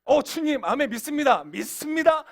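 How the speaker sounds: 높고 크게 외치는 성도 흉내; 확신에 찬 척 목소리를 높여. Acted. Acted eager amen from believers. (열렬히 믿음을 고백하는 흉내)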